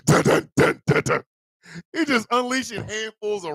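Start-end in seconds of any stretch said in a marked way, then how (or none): 0.1-1.2 hummed Terminator theme. Pretend. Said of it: "The Terminator music is playing".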